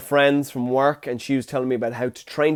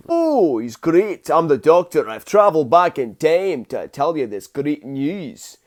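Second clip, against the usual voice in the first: Capaldi impression; slower than usual. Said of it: "my Peter Capaldi impression".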